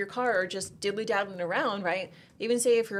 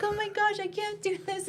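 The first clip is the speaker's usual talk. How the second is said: much higher, squeaky mock panic; innocent squeal; 12 semitones higher than usual. Timid student after yelling and cussing on the range, squeaky and flustered. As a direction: squeal it like a sweet lady shocked at herself. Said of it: "her personality was just so innocent".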